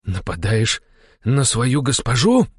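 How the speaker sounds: slow, menacing question rising in pitch; growling challenge. A narrator's reading. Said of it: "прорычал мой верный слуга". (угрожающе прорычать)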